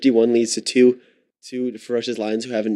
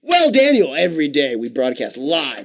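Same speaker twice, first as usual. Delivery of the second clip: radio host patter; slower than usual. Pretend. Host answers caller in radio patter.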